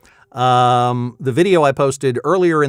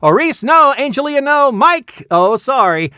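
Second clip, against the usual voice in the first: high, loud, suspense-milking play-by-play; frantic game-show announcer; 11 semitones higher, 6 dB louder, slower than usual. Pretend. Host calls names on a spinning prize wheel, excited announcer. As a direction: shout each name as the wheel ticks past, stretching some.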